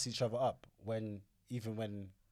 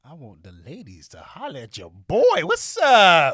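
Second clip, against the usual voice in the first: playful calling out; 3 semitones higher, 17 dB louder, slower than usual. Pretend. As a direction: holler to the ladies, show off. Jokingly calling out to the ladies.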